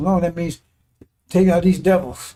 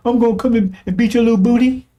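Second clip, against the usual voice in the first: mock threat; 5 semitones higher than usual. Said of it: "How you think that person's talking?".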